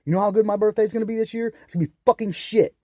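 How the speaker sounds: loud, high and sarcastic; real bitter shouting; bitter angry rant. Real, not acted. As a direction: spit it out in disgust. Bitter rant about birthday.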